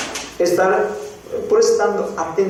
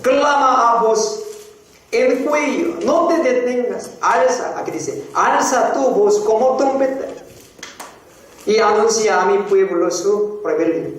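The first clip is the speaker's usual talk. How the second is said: higher, proclaiming the verse like a trumpet; preacher's raised proclaiming voice; loud reading; 4 semitones higher than usual. Shown as a demonstration. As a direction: cry it out as the verse demands. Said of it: "es mejor leerla en voz alta".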